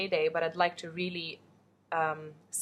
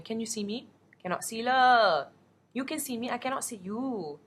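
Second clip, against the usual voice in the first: lightly voiced, slightly higher auntie; imitating aunt; 4 semitones higher than usual. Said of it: "my aunt is just as low-tech as I am going".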